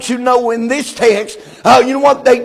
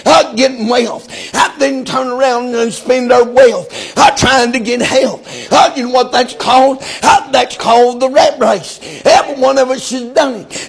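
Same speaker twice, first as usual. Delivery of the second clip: rhythmic preacher with a ringing uh after each breath; preaching cadence. Acted. Pastor preaching to the Sunday congregation in rhythmic cadence. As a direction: preach it with rising fervour.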